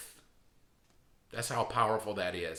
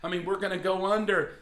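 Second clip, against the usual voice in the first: fast, higher anxious rush of troubles; voicing a listener losing everything, panicky; panicked worrier; 5 semitones higher than usual. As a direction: blurt out every worry in a panic. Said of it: "And you may say".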